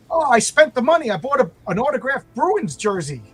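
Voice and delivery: high, loud proud confession; husband brags about the jersey to his wife, high and loud; goofy sitcom husband. Retold or imitated. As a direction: announce it like a happy fool.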